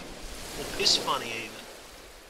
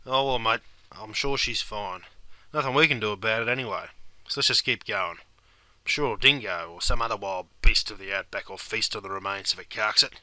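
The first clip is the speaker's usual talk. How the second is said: callous shrug; 7 semitones lower than usual. Acted. Callous mate character.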